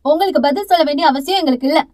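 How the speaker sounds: fast, defiant reply; arrogant retort. Acted. Younger sister defying the aunt, arrogant. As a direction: brush her off with disdain. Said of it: "திமிராகவே சொன்ன".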